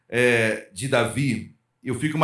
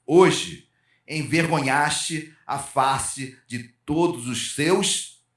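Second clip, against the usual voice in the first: slow, contemptuous rebuke from a cold general; scornful Joab; 2 semitones lower, much slower than usual. Acted. Joab scolding the grieving king, slow and contemptuous. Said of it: "entrou na casa do rei e lhe disse".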